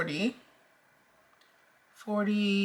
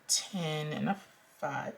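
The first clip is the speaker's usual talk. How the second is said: hiccups; 8 dB quieter than usual. Real, not acted. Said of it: "I got the hiccups".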